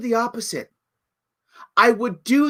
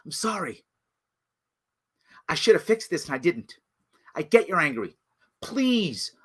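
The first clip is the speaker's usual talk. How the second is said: remorseful apology; 5 semitones lower than usual. Retold or imitated. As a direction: speak to angry crowd as contrite mayor. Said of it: "I meet the people and I say".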